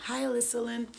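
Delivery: a hint of girly chirp; girlfriend's greeting voice. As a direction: lightly imitate a sweet girl's greeting. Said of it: "like that".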